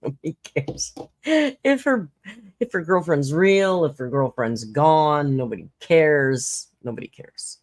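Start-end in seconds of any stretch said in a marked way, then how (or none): 1.2-6.7 mock dramatic indifference. Mocking indifference. 6.8-7.6 breathy whisper of "Nobody cares". Pretend. To chat, whispering a mock shrug.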